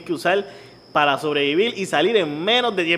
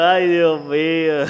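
exasperated sigh; much slower than usual. Retold or imitated. His own exasperated reaction.

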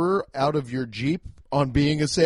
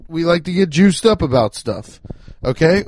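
loud, revved-up shout; fired-up shout; 9 dB louder than usual. Real, not acted. Host shows how his family gets fired up, loud shouting. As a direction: blast it out, juiced up.

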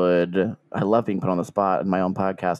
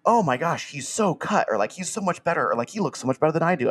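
gushing contestant; 5 semitones higher than usual. Retold or imitated. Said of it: "the fact that they're all like".

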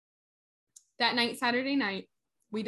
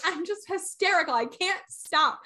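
high-pitched imitated crying through the words; mock hysterical wail; 7 semitones higher, 3 dB louder than usual. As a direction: wail it, dragging out the end. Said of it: "scream at the top of my lungs".

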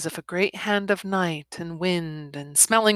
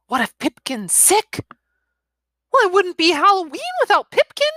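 put-on high, loud, fast kids; worried boys; 12 semitones higher, 6 dB louder than usual.

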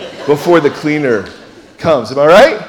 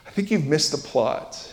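kind gentle correction; 5 dB quieter than usual. Retold or imitated. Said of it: "Jesus would very kindly say".

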